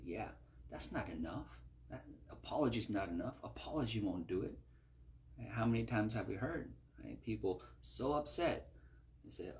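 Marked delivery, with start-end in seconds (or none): 0.0-4.6 devilish whisper. Retold or imitated. Devilish mindset whispering to the bitter heart, sly. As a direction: murmur it like a voice in your ear. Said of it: "that's gonna speak to you and say".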